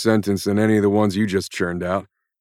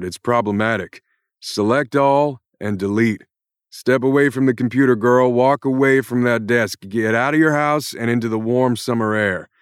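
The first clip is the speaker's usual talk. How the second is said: higher and louder, shouting curses at the author; furious rant; 4 semitones higher, 6 dB louder than usual. Acted. Jack Irons yells at the writer who created him, furious. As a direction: let rip at her like a fed-up hero. Character breaks frame, rants at author.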